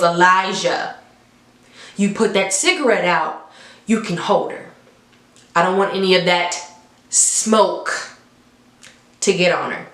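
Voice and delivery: slow, with long pauses between phrases; deliberate slow retelling of Annie's words; slow repeat. Shown as a demonstration. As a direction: spell it out slowly, pausing before smoke. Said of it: "Let me repeat it slowly".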